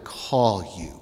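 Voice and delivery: "call" set apart as the key word; stress on "call". Shown as a demonstration. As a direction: lean on "call", letting "you" fall away. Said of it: "I wanna emphasize that word".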